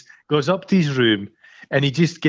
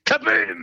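mock explosion; 11 semitones higher than usual. Imitating the film's explosion.

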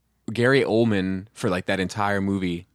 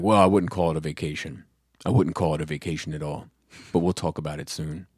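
lightly voiced dad, lower, understated; dad's phone voice; 6 semitones lower than usual. Dad putting off his son, in a low phone voice. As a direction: imitate a guarded dad on the phone. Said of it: "that's his phone voice".

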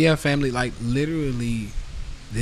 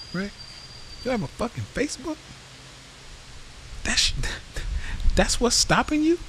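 exasperated rant. Retold or imitated. Host ranting at a follower with no Facebook, exasperated disbelief. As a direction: vent at the excuse, incredulous. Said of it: "Because I'm like".

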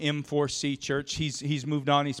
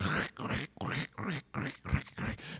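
crunching noise; 8 dB quieter than usual. Retold or imitated. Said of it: "and he's like".

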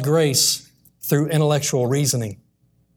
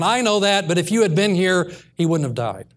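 demanding; 2 semitones higher than usual. Retold or imitated. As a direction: push back as if owed an answer. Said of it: "demanded answers".

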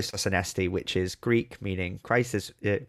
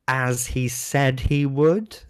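playful emphasis; 4 semitones higher, 4 dB louder, much slower than usual. Shown as a demonstration.

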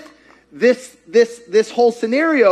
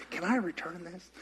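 laughing; 17 dB quieter than usual. Acted. Mock question to Jesus, laughing.

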